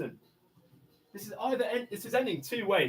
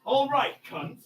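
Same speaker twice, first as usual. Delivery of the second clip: angry shout; 7 semitones higher than usual. Real, not acted. Man snapping at the negotiator, angry shout. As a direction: cut them off with a yell.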